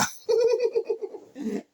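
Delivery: loud high cackle; shrieking laugh. Real, not acted. Storyteller cackling at his own comeback.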